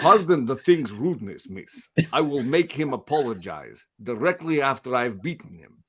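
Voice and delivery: lightly acted Russian accent; stiff, formal line in a Russian accent; Colossus, Russian accent. Host reading Colossus's panel aloud, mock Russian accent. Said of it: "before I get into the Russian accent".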